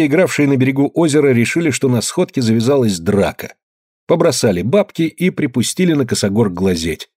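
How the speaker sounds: ordinary delivery, nothing marked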